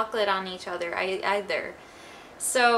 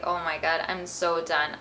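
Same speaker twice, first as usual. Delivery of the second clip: fed up; 5 semitones lower than usual. Retold or imitated. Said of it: "I was just like".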